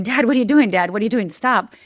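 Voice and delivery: urgent plea, re-enacted with restraint; retold scream. Child pleading with armed father, mild retold scream. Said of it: "And I start screaming".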